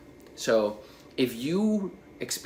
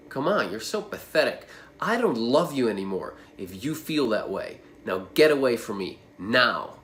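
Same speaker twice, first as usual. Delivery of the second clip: harsh father. Shown as a demonstration. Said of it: "And you react to him in the following way".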